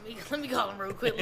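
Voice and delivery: drowsy, groggy just-woke-up voice; sleepy voice. Retold or imitated. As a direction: mumble it like you barely woke up. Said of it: "he put on the sleepy voice".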